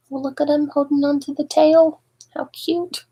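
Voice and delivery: high, fond exclamation; delighted aside. Real, not acted. Reader showing the child the baby holding the tail, high and delighted. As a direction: point it out with delight. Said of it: "reader's aside to child".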